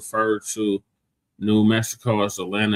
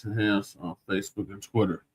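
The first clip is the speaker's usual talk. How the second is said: podcast outro; 3 dB quieter than usual. Acted. Host reads show outro.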